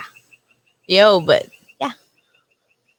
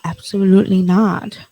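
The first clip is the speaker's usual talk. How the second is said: mimicking the refusal; 2 semitones lower than usual. Shown as a demonstration. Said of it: "Why would you say it like that?".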